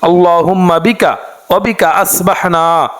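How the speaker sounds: slow, measured Arabic prayer chant; dua recitation. Acted. Teacher reciting the morning dua to listeners, slow chant. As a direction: draw each phrase out like a prayer.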